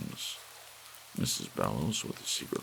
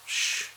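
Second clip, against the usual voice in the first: shushing. Acted. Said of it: "shaking her fingers and saying".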